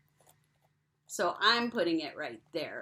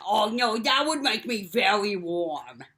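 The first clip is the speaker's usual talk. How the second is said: penguin puppet voice; 6 dB louder than usual. Acted. Puppet Pete answers.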